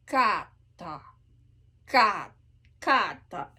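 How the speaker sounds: kata with a K between C and G. Shown as a demonstration. Coach showing the K between C and G. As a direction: soften the K toward a G. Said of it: "a mix between a C and G".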